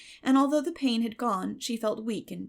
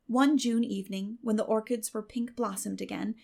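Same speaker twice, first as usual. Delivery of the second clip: usual speaking voice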